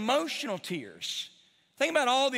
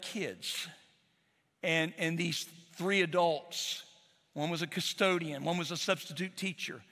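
grieving; 4 semitones lower than usual. Real, not acted. Pastor grieving the Nashville victims, low and hushed. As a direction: let the grief weigh each phrase down.

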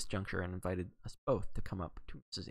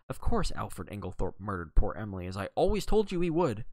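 Evie's indignant raised voice, rising at the end; loud, accusing insistence; shouting; 5 dB louder than usual. Acted. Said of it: "don't shout so".

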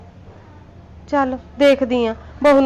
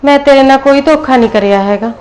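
louder, firm denial to her daughter-in-law; 7 dB louder than usual. Acted. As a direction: push back hard against the accusation. Mother denies betrayal in quarrel.

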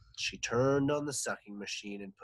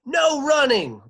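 high, loud playground command; stern order; 16 dB louder than usual. Acted. Playground supervisor orders the boys, loud command. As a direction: call it out across the yard. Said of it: "ordered Mister Lewis".

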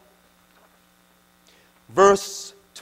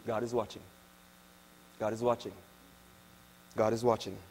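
hushed warning; 9 semitones lower, 12 dB quieter, faster than usual. Real, not acted. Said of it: "repeated warning, soft".

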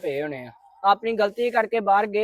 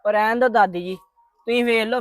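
louder, higher indignant protest; raised, indignant plea; upset protest; 3 semitones higher, 6 dB louder than usual. Acted. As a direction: push back hard at grandma. Grandson protests to grandmother.

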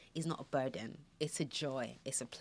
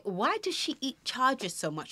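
puzzled high question; 9 semitones higher, 3 dB louder than usual. Retold or imitated. Puzzled about baby eating chargers.

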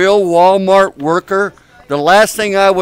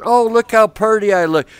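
higher-pitched mock self-admiration; mock vanity; 5 semitones higher than usual. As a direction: preen at the mirror, teasingly. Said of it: "then they go like this".

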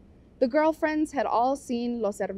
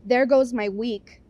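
louder, fed-up complaint; complaining; 6 dB louder, slower than usual. Acted. Vampi to her friends about the trip, a louder fed-up complaint. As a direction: groan it out like the week is ruined. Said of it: "Vampi complained".

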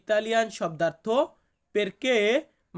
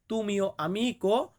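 tu mio amico said very slowly with a rise on amico; slow recap; much slower than usual. Shown as a demonstration. Teacher recapping the phrase slowly for learners. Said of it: "আমিকো মানে বন্ধু".

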